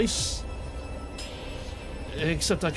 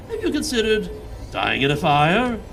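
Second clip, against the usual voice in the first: sinister voice; 4 dB louder than usual. Acted. Shadow voice taunting in head.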